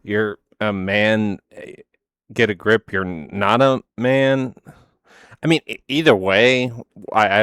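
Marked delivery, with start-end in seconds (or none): 0.0-4.5 drawn-out, mocking imitation; slow mocking. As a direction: stretch each word to mock them. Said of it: "you were telling her".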